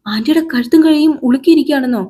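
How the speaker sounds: put-on shocked girl. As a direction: gasp it out like a startled kid.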